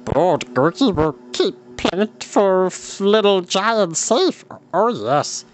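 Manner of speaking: high creature voice, trying to reassure; reassuring creature. Acted. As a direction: comfort him while lost. Gurgi creature voice.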